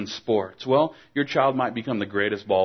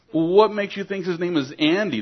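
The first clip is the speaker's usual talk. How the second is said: puzzled teacher; 8 semitones higher, 4 dB louder than usual. Retold or imitated. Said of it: "the teacher asked".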